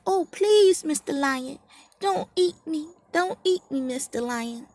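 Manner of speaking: high, squeaky begging; a tiny mouse pleading for its life; startled mouse pleading. A narrator's reading. Mouse begging the lion not to eat him, high and frightened. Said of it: "he was startled".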